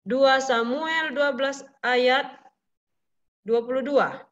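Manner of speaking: slow, spaced-out reading of the reference; slow dictation. Shown as a demonstration. Teacher reading Dua Samuel slowly for children to note. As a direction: let the class write it down. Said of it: "repeated reference".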